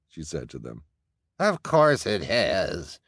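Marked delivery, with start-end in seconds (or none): 1.4-3.0 slow pompous agreement; agreeing elder. Acted. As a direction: agree smugly. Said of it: "agreed an elder".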